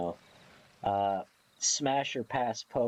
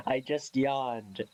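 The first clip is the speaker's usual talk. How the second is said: laughing; slower than usual. Real, not acted. Laughs after yawning.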